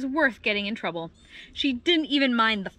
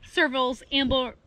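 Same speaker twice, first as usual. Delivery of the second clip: ordinary delivery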